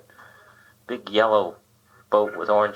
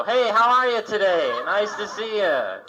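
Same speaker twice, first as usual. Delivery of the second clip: a cow greeting a driver; hammed-up friendly cow; talking cow. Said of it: "I'd like to see the cow go".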